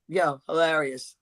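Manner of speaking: slow, unlaughing mock praise; deadpan approval. Comedians praising a joke while laughing only inside, slow deadpan. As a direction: drag it out without a hint of laughter. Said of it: "They don't even look like they're laughing".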